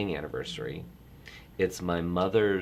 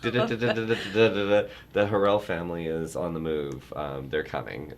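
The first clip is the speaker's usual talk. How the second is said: mock telegraph announcement. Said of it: "the telegraph?".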